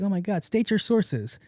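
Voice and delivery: high mock indignation; mock indignant commenter. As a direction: whine it like an online commenter. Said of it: "They're like".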